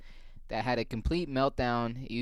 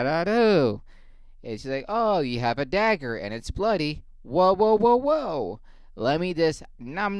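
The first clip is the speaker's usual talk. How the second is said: higher put-on woman's voice, exasperated; hooker character; 3 semitones higher than usual. Hooker complains to Van Gogh, higher exasperated put-on voice. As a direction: play the fed-up hooker.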